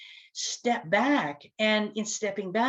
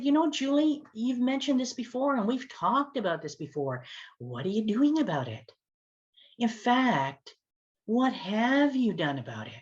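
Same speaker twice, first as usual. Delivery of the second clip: gently pointed question, a little higher; ever so kindly; 3 semitones higher than usual. Retold or imitated. To complaining Julie on the phone, ever so kindly. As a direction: kindly put the question back on her. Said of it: "ever so kindly".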